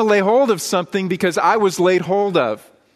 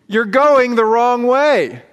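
slow, loud, raised-pitch cry; heavenly host screaming; 5 semitones higher, 5 dB louder, much slower than usual. Acted. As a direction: draw out an urgent shout from heaven. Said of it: "they are screaming at us".

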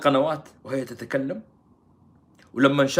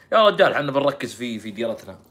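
usual speaking voice

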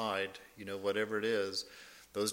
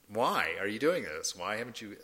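pressing, louder repeat of "why are you doing this?"; insistent bystander; 3 dB louder than usual. Retold or imitated. Bystander presses the sadhu, louder insistent question. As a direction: push the question harder. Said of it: "the bystander comes and says to him".

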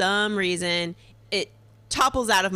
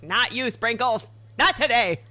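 mock defiance; 4 semitones higher than usual. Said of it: "I was just like".

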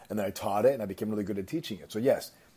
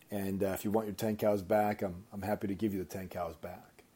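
downcast offer; 6 dB quieter than usual. Retold or imitated. Farmer offers the prince his cows back, subdued. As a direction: give it up quietly, head down.

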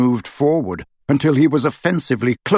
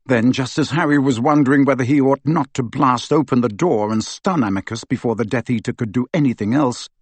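usual speaking voice

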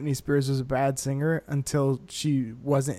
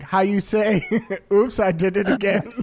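put-on broken English accent; 3 semitones higher than usual.

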